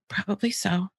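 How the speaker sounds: soft, unbothered "Could be"; calm empathy. Shown as a demonstration. Mother answering a whining child calmly. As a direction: let it slide off you calmly. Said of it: "my little phrase".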